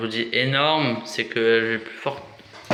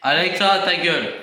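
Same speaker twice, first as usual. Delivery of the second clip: annoyed shout; 6 semitones higher, 4 dB louder than usual. Real, not acted. Yelling at Alexa.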